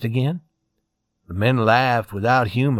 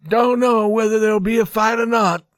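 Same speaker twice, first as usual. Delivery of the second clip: higher, firm, no-nonsense answer; 7 semitones higher than usual. A narrator's reading. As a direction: say it firmly, settled. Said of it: "answered one man firmly".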